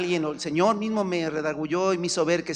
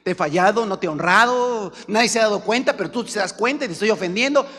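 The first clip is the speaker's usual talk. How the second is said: sample prayer; 3 semitones higher, 4 dB louder than usual. Shown as a demonstration. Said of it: "Pídele perdón a Dios".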